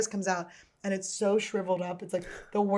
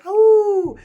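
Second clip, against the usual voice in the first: higher, louder mock gasp of surprise; surprised; 12 semitones higher, 11 dB louder than usual. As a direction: act startled. Acted shocked reaction in vine.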